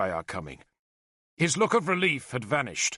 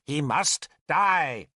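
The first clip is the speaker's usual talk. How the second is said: slow, patient statement; much slower than usual. A narrator's reading. Merlin answering Arthur's outburst, patient. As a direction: spell it out slowly and patiently. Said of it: "Merlin said patiently".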